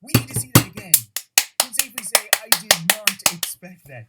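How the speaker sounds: loud hyped esports announcer. Pretend. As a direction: shout it like a fighting game announcer. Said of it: "that stupid announcer voice".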